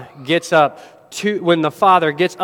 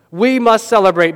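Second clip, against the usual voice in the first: louder, stirring proclamation; emphatic; 4 semitones higher, 4 dB louder than usual. Shown as a demonstration. Preacher declares to the congregation: emphatic call. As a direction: proclaim it to the whole church. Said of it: "repeats the line, first loud then hushed".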